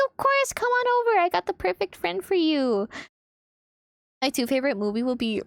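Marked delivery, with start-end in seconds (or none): 0.1-2.9 eager welcome. Retold or imitated. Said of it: "I'm like".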